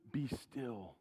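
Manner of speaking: calm. Shown as a demonstration. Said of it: "we are told to".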